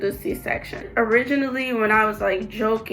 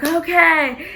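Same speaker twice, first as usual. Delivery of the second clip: quick, higher imitated okay; chirpy agreement; 7 semitones higher, 4 dB louder than usual. Staff agreeing once papers are signed, imitated chirpy. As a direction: sing out a brisk mock okay. Retold staff reply to her consent.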